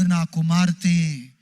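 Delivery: put-on slow, tender call to a child; slow fatherly call to his children; God calling tenderly. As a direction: draw each word out like a loving father. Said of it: "దేవుడు".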